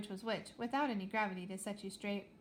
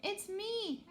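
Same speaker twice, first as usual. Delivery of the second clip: shouting; 11 semitones higher than usual. Acted. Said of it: "Astra shouted".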